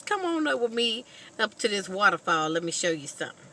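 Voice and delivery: father inviting son up to the waterfall; a hint of an eager father. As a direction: sell the better idea to the son. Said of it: "He says".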